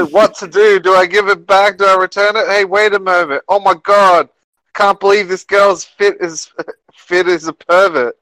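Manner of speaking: put-on high, jokey British accent; mock British accent. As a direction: play the flustered salaryman in a silly British accent. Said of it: "British accent for the whole thing".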